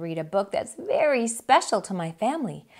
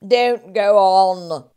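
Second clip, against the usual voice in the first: loud, rising repeated stops; interrupting shout; 11 dB louder, slower than usual. Acted. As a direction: cut her off hard. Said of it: "The rat interrupts".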